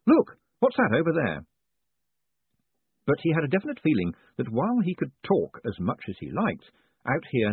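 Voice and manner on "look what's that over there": mock alarmed cry. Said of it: "a cry of".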